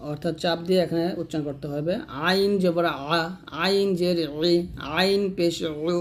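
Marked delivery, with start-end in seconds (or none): 2.3-6.0 আইন pressed from the middle of the throat; squeezed throat Ayn. Shown as a demonstration. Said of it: "গলা চেপে হবে". ("আইন" গলা চেপে উচ্চারণ)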